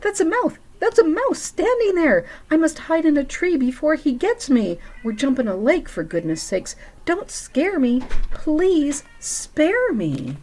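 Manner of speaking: high, panicked squeal of fear; frightened elephant. Acted. Elephant begging the scary mouse, high and panicked. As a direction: beg the mouse to spare you.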